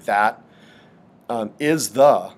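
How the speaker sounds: "that" set apart, then "is the" slow and unstressed; pyrrhic foot demo. Shown as a demonstration. Teacher showing the class the pyrrhic foot, slowly. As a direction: say "that", pause, then drag out "is the" without stressing either. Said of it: "neither of those words is stressed".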